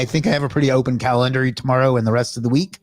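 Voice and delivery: talking while out of breath; short of breath after the sign-off. Real, not acted. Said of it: "Whew, I'm out of breath".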